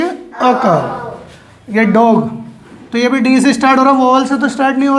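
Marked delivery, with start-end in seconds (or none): 0.0-1.7 slow, softer अ काऊ, article as "uh"; schwa article. Shown as a demonstration. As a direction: repeat अ काऊ slowly with a neutral "uh" first. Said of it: "क्या बोलेंगे?".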